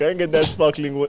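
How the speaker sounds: plain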